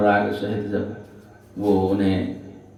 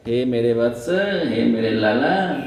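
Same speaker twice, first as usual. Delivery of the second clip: mother soothing. Retold or imitated. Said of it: "मैया आकर कहती है".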